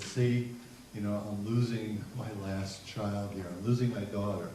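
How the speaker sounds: soft, subdued retelling of a sad mother; a touch of sorrow, voice dropped; tearful mom, understated. Retold or imitated. Mom fears losing her last child, understated sadness. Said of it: "Mom starts to cry".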